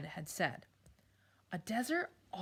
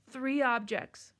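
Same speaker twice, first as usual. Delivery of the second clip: sobbing; 4 semitones higher, 5 dB louder, slower than usual. Acted. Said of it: "she began to sob harder".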